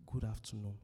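respectful greeting. Shown as a demonstration. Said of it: "Don't say hi. Say".

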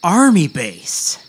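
drill sergeant. Acted. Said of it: "Sergeant Daniels".

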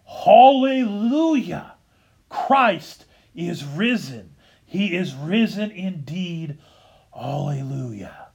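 ringing first Hallelujah of Easter; Easter proclamation. Acted. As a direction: proclaim it slowly to the whole church. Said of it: "you hear it for the first time".

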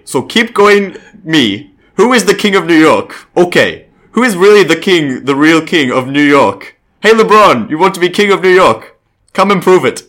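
loud, high-pitched mock Turkish accent; Enes Kanter's Turkish accent. Host reads player's recruiting video to LeBron, in a put-on Turkish accent. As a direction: declaim it in a hammed-up Turkish accent. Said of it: "in Enes Kanter's perfect Turkish accent".

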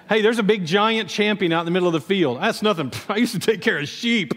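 bragging through a chuckle; amused mock boast. David offers his sheep resume against the giant, mock boasting. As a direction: play the cocky shepherd, breaking into laughs.

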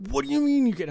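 very high, loud furious scream. Retold or imitated. Angry concertgoer screams at driver blocking the garage. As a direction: scream it at him in disbelief. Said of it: "I'm screaming at him".

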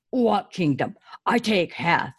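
a hint of a gruff ogre; lightly voiced brute.

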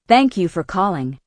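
usual speaking voice

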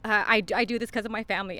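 steady voice with shaky moments, fighting tears; holding it together while choked up; emotional. Real, not acted. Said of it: "Sorry, I get emotional".

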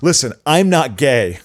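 slow, deliberate mock disclaimer; drawn-out, half-joking guy protesting he's not gay. A straight guy disclaiming before admiring a sunset, slow mock tone. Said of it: "the homosexual disclaimer".

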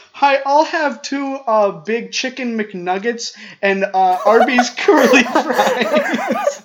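slow, high, clueless customer voice; drawn out dopey order, rising into a laugh; high dim customer, laughing at the end; mock customer. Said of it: "People were like".

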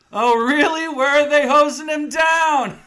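high, very loud jeer; mock taunting shout. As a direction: yell it as a hammed-up comeback. Acted taunting retort at the door.

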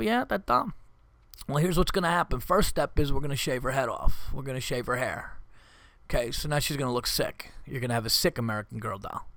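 lightly voiced mob-boss menace; calm, mock-threatening mob sit-down; mafia boss. Dad talking to kids like a mafia meeting, mild mock menace. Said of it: "as if I'm in, like, a mafia meeting".

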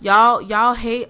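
slow, emphatic southern accent. Real, not acted. Speaker addressing white nationalists, slipping into a southern accent. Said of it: "with a southern accent".

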